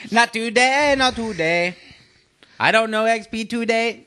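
loud high joking refusal; mock excited shout. Real, not acted. Teasing the host who plays a song, loud high refusal.

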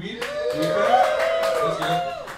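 squealing high-pitched hype; hyped, squeaky cheer at the weed heads. Real, not acted. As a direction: shriek it up like a crowd hype man. Hyping the crowd.

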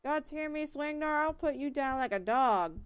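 put-on loud threats in a country accent from behind a door. Villager yelling through the mill door, country accent. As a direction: bark it out like a riled country man through a door. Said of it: "gave that guy a country accent".

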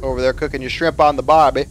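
a loose, half-hearted Aussie twang; mock Australian accent, barely there; bad Australian accent. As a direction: toss off a hammed-up Australian line. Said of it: "that was my Australian accent".

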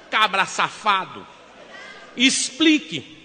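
slow, drawn-out angry command; slow furious demand. Retold or imitated. Wife to cheating husband, slow furious demand. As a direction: drag each word out in fury.

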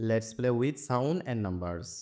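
very slow, word by word; slow reading. Shown as a demonstration. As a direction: spell the title out slowly for the class. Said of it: "teacher reads chapter title again". (খুব ধীরে, শব্দে শব্দে পড়া)

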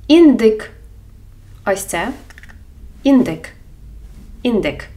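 індик loud, clear і; careful Ukrainian word. Shown as a demonstration. Teacher models індик for learners. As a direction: say індик, stress on the last syllable. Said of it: "Або".

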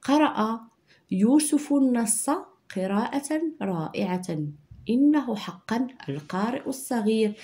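unhurried dictation read. Shown as a demonstration. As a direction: read the sentence out for pupils to copy. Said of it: "إذا نقرأ الجملة".

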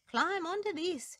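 high, cooing dove. Acted. Dove helping the drowning ant, cooing high. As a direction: coo it gently as a dove. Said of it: "she cooed".

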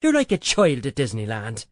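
playful scolding in a character voice; burla fingida del marido. A narrator's reading. Husband teased in narrated banter.

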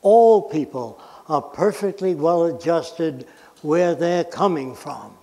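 slow, every word placed; over enunciating. Shown as a demonstration. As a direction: say it slowly for emphasis. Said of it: "let me say this slowly".

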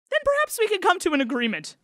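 calling back. A narrator's reading. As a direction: call it back up the well. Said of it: "the rabbi called back".

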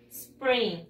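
SPRING drawn out, falling at the end; model pronunciation. Shown as a demonstration. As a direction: say "Spring" slowly for pupils to copy. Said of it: "Repeat after me". (pronunciación modelo, alargada)

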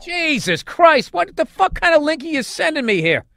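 high, loud alarmed cry; shocked outburst. Real, not acted. Host hears an offensive clip he linked, loud shocked cry. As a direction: recoil in real horror at what just played.

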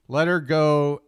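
"Let her go" with "her" punched; stress on "her". Shown as a demonstration. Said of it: "any expletive you want".

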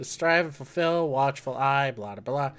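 a hint of a pompous quest giver; mock grand lord. Gamer mocking the game's lordly dialogue, hammed-up grandeur. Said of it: "That's exactly how they sound".

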